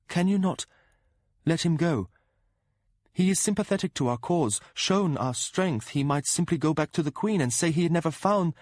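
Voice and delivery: più alta, supplica accorata; voce del principe. Acted. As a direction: implora di risparmiare Lord Golden. Prince pleads for Golden.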